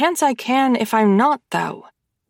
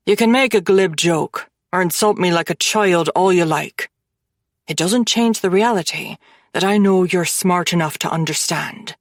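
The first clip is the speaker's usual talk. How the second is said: thin, cold; 3 semitones lower than usual. Acted. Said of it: "he says thinly".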